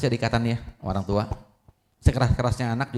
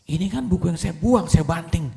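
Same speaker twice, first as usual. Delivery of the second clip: surprised; 4 semitones higher than usual. Acted. Xiaoming kaget mengenali buku.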